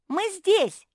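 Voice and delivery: a loud, high call of arrival; exclaiming. A narrator's reading. Kuki announcing her arrival at the cat's house, loud and high. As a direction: sing out that we've arrived. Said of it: "воскликнула Куки".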